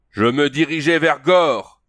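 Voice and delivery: cri lent et haut de guerrier; Conan qui crie. Acted. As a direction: lancer l'appel d'une voix forte depuis la falaise. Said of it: "Le hurlement lui fit". (Conan crie lentement vers les cavaliers)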